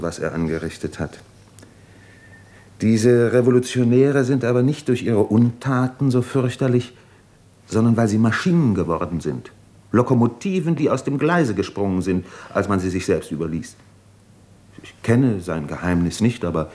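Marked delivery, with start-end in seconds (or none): 2.8-12.8 lightly raised, earnest fervour; impassioned. Acted. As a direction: drive the point home with heat. Jura argues passionately about revolutionaries.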